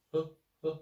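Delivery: he clipped short and slight; short light neutral tone. Shown as a demonstration. Teacher contrasting the short neutral tone with the long first tone. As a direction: tap the he quickly and lightly. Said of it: "and also shorter pronunciation".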